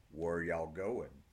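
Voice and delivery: slow, lightly voiced West Texas drawl; a lazy Texan asking, slow. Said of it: "in a rich West Texas drawl".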